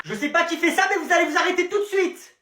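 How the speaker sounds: a touch of indignant scolding; mild angry warning. Acted. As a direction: tell them off firmly. Scolding unseen throwers.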